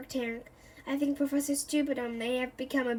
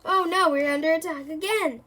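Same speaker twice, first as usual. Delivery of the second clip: loud, higher panicked yell; 4 semitones higher, 6 dB louder than usual. Acted. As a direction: cry out as if under fire. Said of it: "puts up his hands and yells".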